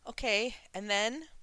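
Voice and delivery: loud, high, slow trembling plea; on the verge of tears. A narrator's reading. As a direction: ask while nearly crying. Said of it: "on the verge of tears".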